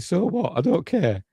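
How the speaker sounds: high-pitched dismissive retort; Dylan. Retold or imitated. Prisoner refusing to help Ripley, mock dismissive. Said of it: "And Dylan's saying".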